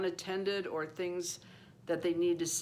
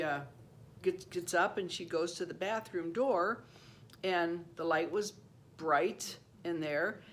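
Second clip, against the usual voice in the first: ordinary talk, nothing marked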